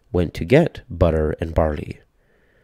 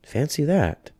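put-on high, slow, amazed old lady; old woman marvelling, higher and slower; little old lady, marvelling; 8 semitones higher than usual. A narrator's reading. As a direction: savour the wonder of it. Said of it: "said the little old lady".

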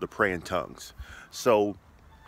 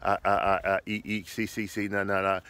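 string of simple syllables; tongues babble demo. Shown as a demonstration. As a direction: babble vowels and consonants. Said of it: "vowels and consonants".

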